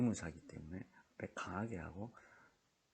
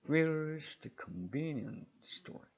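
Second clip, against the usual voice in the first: slow, Where's high and loud, ending not raised; wh-question tune; 8 semitones higher, 7 dB louder, much slower than usual. Shown as a demonstration. Teacher shows students the wh-question tune, slow and loud. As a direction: stress Where's and don't lift the end. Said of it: "한번 더 합시다".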